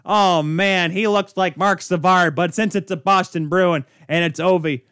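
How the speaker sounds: a hint of hockey commentator, excitement fading into indifference; Jack Edwards. Host mimicking a biased announcer calling a hit, lightly voiced play-by-play. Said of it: "He, Jack Edwards, on the call".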